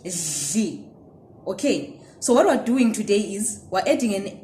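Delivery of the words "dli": Dli with a soft lateral dhl sound; Ndebele syllable. Shown as a demonstration. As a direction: model Dli quietly. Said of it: "how to pronounce the syllable dli".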